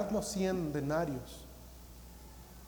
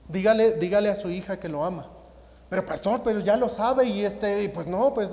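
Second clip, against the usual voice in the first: louder, pressing back and forth; urging then resisting; 4 semitones higher, 7 dB louder than usual. Retold or imitated. Pastor pressing the father to tell his daughter, louder urging. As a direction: press him, then balk.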